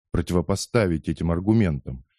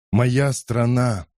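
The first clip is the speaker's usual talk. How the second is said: moaning; 4 semitones higher, much slower than usual. Acted. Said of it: "простонал Кетчу".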